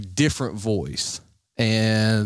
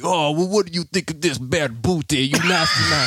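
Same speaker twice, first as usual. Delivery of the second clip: cheeky, pitched-up country woman; put-on female voice; 4 semitones higher than usual. Prankster baiting the threatening scammer, high female voice. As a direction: taunt back in a female disguise. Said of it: "female voice".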